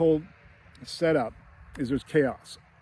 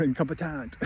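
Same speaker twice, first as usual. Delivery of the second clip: "incompetent" with a French-style last syllable; mock French accent; 4 dB quieter than usual. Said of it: "in France, they call you".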